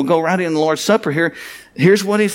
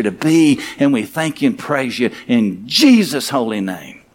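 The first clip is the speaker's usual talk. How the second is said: hushed, earnest closing prayer; pastor's closing prayer. Acted.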